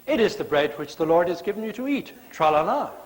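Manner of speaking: sing-song churchy sweetness; hammed-up pious lilt; mock nice. Shown as a demonstration. Preacher mocking church reading, sing-song sweetness. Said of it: "Moses didn't say nicely, as we would read it in church".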